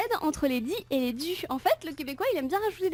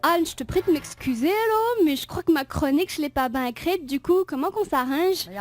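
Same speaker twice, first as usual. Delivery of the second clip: fake Quebec accent. Shown as a demonstration. The speaker demoing her Quebec accent to Anne. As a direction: drag it out like a French person faking Quebec. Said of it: "avec l'accent".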